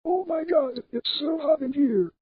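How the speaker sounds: panting between words; breathless from the heat; out of breath. Acted. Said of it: "so excuse my panting".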